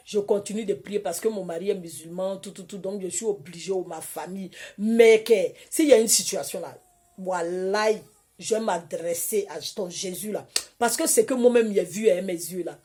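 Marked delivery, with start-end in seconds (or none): none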